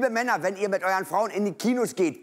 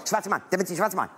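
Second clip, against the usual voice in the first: fast repeating; faster than usual. Retold or imitated. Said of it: "Wiederholen nur".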